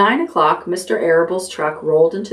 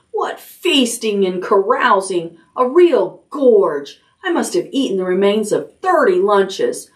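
gloating excitement; 4 semitones higher than usual. Acted. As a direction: savor every word of the feast. Templeton boasting of his feast.

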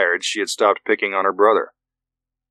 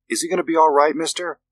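put-on little girl; 8 semitones higher than usual. A narrator's reading. Young daughter asks old vet about dog, high worried child voice.

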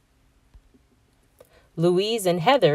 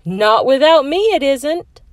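high, louder playful challenge; playful mom; 8 semitones higher, 6 dB louder than usual. A narrator's reading. Mom joining the snowball fight, playful. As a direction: join the fight with spirit.

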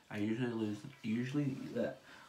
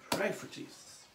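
mock prayer; 7 semitones higher than usual. Jokes about the makeup going badly.

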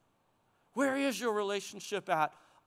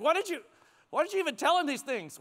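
higher-pitched mock protest; protesting question; 6 semitones higher, faster than usual. Someone objecting to the preacher's questions, protesting.

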